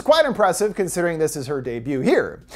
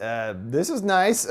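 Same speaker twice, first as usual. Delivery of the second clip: slow, unimpressed mumble; politely underwhelmed; half-hearted; 4 semitones lower, 5 dB quieter, slower than usual. Retold or imitated. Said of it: "gives a half-hearted".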